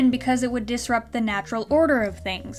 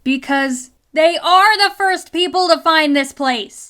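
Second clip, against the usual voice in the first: "are" punched louder and higher; stress on ARE; 4 semitones higher, 7 dB louder than usual. Real, not acted. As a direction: lean hard on "are" to contradict. But there's a slight problem.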